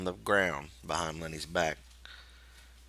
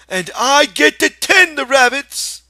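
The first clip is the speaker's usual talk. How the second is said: put-on high, loud, slow childlike glee; eager Lenny; 17 dB louder than usual. A narrator's reading. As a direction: call it out like a kid promised a treat. Lenny's voice in the story.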